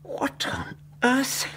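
slow whispered amazement; hushed wonder. Acted. Doctor unwraps the parcel, whispering in wonder. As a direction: barely breathe the question.

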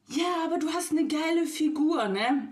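a mocking flirty man. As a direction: ham up the creep's line. Mocking the married man's flirt.

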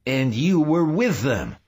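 high-pitched startled accusation; sudden cry. A narrator's reading. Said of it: "he cried suddenly".

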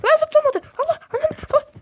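loud, high outraged shout; real gamer rage; frustrated yell. Real, not acted. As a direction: scream at the game. Character failed to jump.

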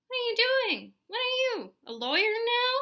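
high, loud incredulous questioning; exasperated. A narrator's reading. Mom challenges her haggling son, loud and exasperated. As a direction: demand it in disbelief.

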